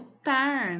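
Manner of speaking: "tar" drawn out slowly; stressed syllable. Shown as a demonstration. Teacher answering which syllable is strongest, "tar" lengthened. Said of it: "Qual é a sílaba mais forte?".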